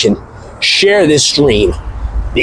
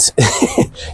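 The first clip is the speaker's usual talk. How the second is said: squealing laugh; 5 dB quieter than usual. Real, not acted. Laughs at funny topics.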